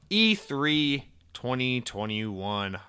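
very slow, stretched title read; a mock-grand topic announcement; drawn-out announcement. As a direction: read the title slowly like a headline.

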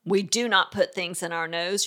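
firm but not yelling. Shown as a demonstration. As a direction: state the rule and leave no opening. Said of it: "is firm".

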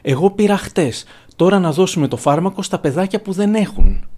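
a touch of a crying toddler asking, lightly voiced; mild childish whine. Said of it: "Η μικρή βάζει τα κλάματα και λέει". (ελαφρώς κλαψιάρικη παιδική φωνή)

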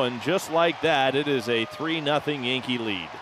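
live radio call building up; play-by-play call. Acted. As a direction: call the action as it happens. Play-by-play home run call.

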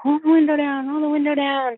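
high mock yell of the angry girl; shrill-pitched demand, lightly acted; retold scream. Girl outside the car yelling at her, mock shout. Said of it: "she's screaming".

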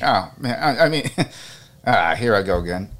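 real catch of emotion, with a small laugh; a little overcome, stumbling over the words; choked up. Real, not acted. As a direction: fight back feeling with an embarrassed chuckle. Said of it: "I'm getting choked up a little".

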